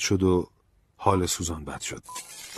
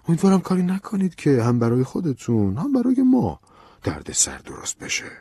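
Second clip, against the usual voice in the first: threatening; 5 semitones higher, 5 dB louder than usual. A narrator's reading. Colonel leaning toward Ben to warn him, threatening. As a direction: menace that swells, then drops at the end. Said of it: "با لحنی تهدیدآمیز گفت".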